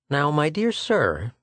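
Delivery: slow, kindly address; kindly doctor, lifted pitch. A narrator's reading. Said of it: "said Schecht kindly".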